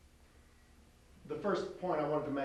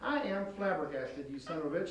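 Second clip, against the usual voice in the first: drawn-out, hesitant mock read; imitating slow start. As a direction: stretch the words as if unsure. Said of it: "you went".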